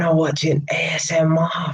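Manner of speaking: whispered like an ASMR video, teasing; a hammed-up whisper mocking ASMR. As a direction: breathe it out in a jokey ASMR whisper.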